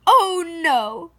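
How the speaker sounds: loud, high dismayed voice; shocked cry. Acted. Mama sees the ruined school shoes, shocked cry. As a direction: gasp it out in shock. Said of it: "she cried".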